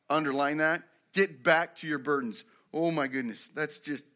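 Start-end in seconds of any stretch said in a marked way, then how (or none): 1.1-2.4 firm quoted command with weight on "Get back"; emphatic repetition. Shown as a demonstration. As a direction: underline "back" as you read it. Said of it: "I didn't emphasize that enough".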